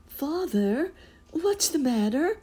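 put-on high, whispered girl's cry of alarm; a frightened child calling out, high and breathy-hushed; girl's voice exclaiming. A narrator's reading. Daughter startled by her father's horror, high whisper. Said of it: "exclaimed Marigold".

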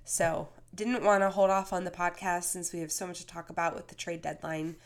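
hoarse, under-the-weather voice; sick voice. Real, not acted. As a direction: talk through a bad cold. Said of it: "that's why I sound like this".

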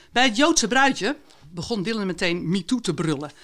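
author reads her own fragment aloud, steady and expressive; story reading. Acted. Author reading her book excerpt to podcast hosts, expressive narration. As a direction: read the passage to the listeners like a storyteller.

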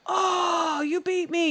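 put-on high, far-off sulky little boy losing a race; mock whiny kid. Mom imitating her son losing the dishwasher race, mock whine. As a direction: pout it out like a beaten kid. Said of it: "he'd be like".

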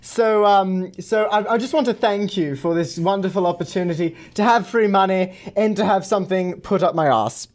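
prank caller in a mock gay-to-British voice; put-on Valley accent. Prank caller thanking a scammer, mock Valley accent. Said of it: "I don't even know what accent I was doing".

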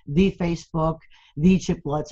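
"the" pronounced "thee" before each name. Shown as a demonstration. Giving examples of Spanish speakers' English, "the" said as "thee". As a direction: say a full "thee" for "the". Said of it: "with the the or the a".

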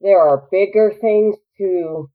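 slow, drawn-out letting it go; measured, self-restrained remark; resigned deep-breath patience. Retold or imitated. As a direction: take a breath, then say it slowly. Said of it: "take a deep breath and go".

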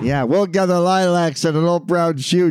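half-hearted imitation of a lazy Liverpool singer; a singer's voice. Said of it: "John's voice".

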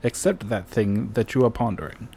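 put-on podcast intro in an old-timey British accent; hosting in a jaunty old-fashioned British accent. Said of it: "I was trying to keep it, like, old-timey British".

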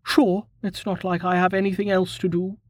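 shrugging it off with a sarcastic jab; a hint of a sulky young woman's sarcasm. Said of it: "Maharia shrugged".

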